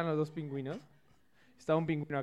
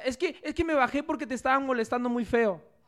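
lion speaking; 6 semitones higher, 5 dB louder than usual. Acted. El león habla al mono.

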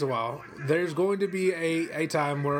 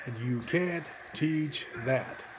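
catchphrase delivery; 3 semitones lower, 5 dB quieter, much slower than usual. Retold or imitated. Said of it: "I'm about to do his whole shtick".

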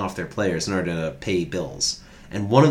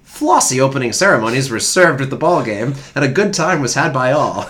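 lightly hammed-up old newsreel announcer; old-timey newsreel voice; 4 semitones higher, 5 dB louder than usual. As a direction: read it like a lightly put-on 1910s sportswriter. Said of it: "I was waiting for the old-timey voice".

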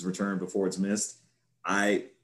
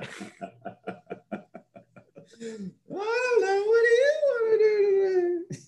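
much higher, whimpering cartoon whine; whiny cartoon voice. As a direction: whine it like a helpless cartoon sea creature. Quoting iconic cartoon line.

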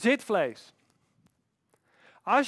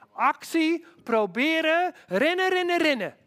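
actie, proberen, rennen, each word climbing higher and louder; rising urgency; 6 semitones higher, 4 dB louder than usual. Real, not acted. Preacher urging the church to run, rising excitement. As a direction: drive the words forward like a rallying cry.

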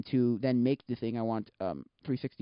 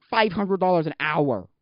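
loud, drawn-out amazement; amazed; 4 semitones higher, 8 dB louder, slower than usual. Real, not acted. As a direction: stretch out the price, louder and higher. First take, amazed at the rates.

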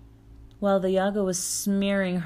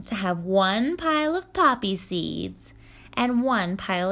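stern witch voice; 3 dB louder than usual. Acted. Baba Yaga commanding.

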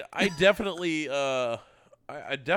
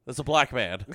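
mock alarmed shout; 3 semitones higher, 8 dB louder than usual. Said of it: "acted warning".

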